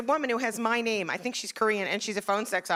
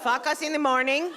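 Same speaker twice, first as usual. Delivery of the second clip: put-on Israeli accent; 5 semitones higher, 3 dB quieter than usual. Imitating her Kabbalah teacher with an Israeli accent. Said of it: "crazy Israeli accent".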